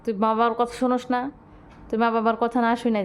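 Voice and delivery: light pretend telling-off; mock scolding a pet. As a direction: scold the naughty cat, not really angry. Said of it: "ধমক দাও তো". (বিড়ালকে হালকা মিছে ধমক)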